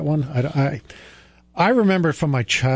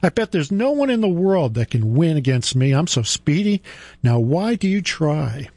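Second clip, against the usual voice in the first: high, boastful hare voice; 6 semitones higher than usual. Acted. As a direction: play the cocky hare, high. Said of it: "squealed with laughter".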